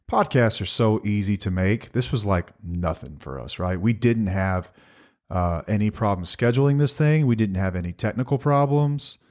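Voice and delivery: deadpan sarcasm about an easy job; sarcastic. Acted. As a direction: say it straight but mean the opposite. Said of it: "Are you being sarcastic?".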